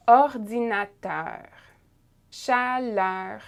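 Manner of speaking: "Erreur" to "Chaleur" one by one, eu opened toward eh before the final consonant; open vowel drill. Shown as a demonstration. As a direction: model each word from "Erreur" to "Chaleur" slowly, open vowel, long pauses. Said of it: "The sound is more like E".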